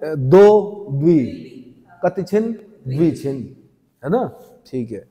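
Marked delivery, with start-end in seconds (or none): 0.0-3.6 द्वि stretched very slowly; slow demo of दो द्वि; drawn out slowly. Shown as a demonstration. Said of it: "ऐसे".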